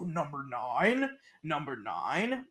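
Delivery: lightly voiced low announcer saying "number nine"; a low, repeated "number nine" with a rising end; executive's voice. Mimicking the studio executive on the track, low and rising. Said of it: "all this".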